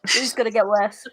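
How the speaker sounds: unvoiced mock-ominous whisper; whispered aside. Friend echoing a warning about the bad accent, whispered. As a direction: whisper it under the laughter.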